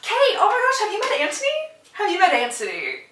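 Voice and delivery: high-pitched gushing greeting, then settling; mock excitement. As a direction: gush the introduction, easing down at the end. Colin's eager introduction, acted.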